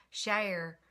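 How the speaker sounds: imitated Kentucky pronunciation of "share"; Southern. Vlogger has another go at her word, Southern. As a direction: try out her Southern way of saying it. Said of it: "how she says share".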